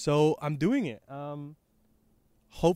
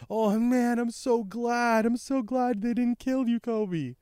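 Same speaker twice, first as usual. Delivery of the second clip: mock tearful relief; 9 semitones higher, slower than usual. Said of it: "And you see Helmeppo crying".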